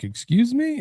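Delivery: high-pitched, affronted questioning; mock indignant challenge. Imagined official stopping a trash-talker mid-run, mock indignant.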